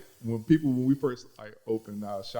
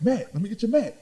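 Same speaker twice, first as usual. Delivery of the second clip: mock repeat; 10 semitones higher, 4 dB louder than usual.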